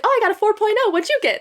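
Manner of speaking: high, bragging mock voice of the roommate. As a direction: show off the grades in a smug high voice. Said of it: "She's like".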